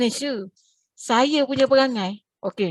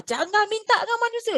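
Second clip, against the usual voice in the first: emphatic teaching line; 10 semitones higher than usual. Shown as a demonstration. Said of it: "Allah ajar".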